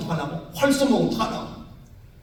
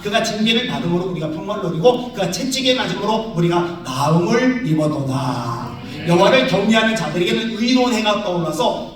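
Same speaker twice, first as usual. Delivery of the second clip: fervent prayer. Retold or imitated. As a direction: pray it out with full force. Fervent healing prayer with scripture. (뜨겁게 선포하는 기도)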